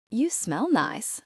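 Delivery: put-on slow, flirty line in a thick Australian accent; a teasing Australian woman, drawn out slowly. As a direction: lean in and purr it in broad Australian. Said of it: "she said in her thick Australian accent".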